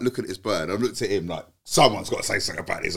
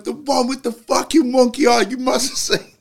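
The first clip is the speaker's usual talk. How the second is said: high, louder, slow laughing insistence; giggling mock insistence; 8 dB louder, slower than usual. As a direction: overplay it while cracking up. Retelling own blunder, laughing.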